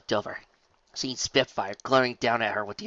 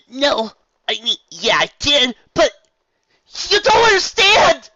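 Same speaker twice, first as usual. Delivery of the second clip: high, loud desperate plea rising to a cry; tearful protest; 15 dB louder than usual. Acted. Rainbow Dash pleading with Wonderbolts, high desperate cry. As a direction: beg them to understand.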